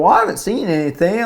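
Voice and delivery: high-pitched mock dad; oblivious dad imitation. Dad to son on the phone, obliviously unimpressed. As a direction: play a dad who isn't getting it. Voicing dad in retold call.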